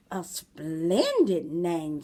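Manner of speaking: slow, savoring wolf voice; slow sly wolf. Acted. Wolf praises the girl's name, slow and savoring. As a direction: draw it out like a wolf tasting the words. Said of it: "said the wolf".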